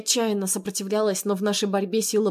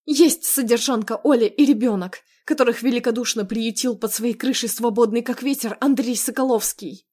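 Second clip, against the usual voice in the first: heated, mildly raised scorn; bitter retort; 3 semitones higher than usual. Acted. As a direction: throw the sarcastic accusation back at him. Wife's bitter retort in a quarrel.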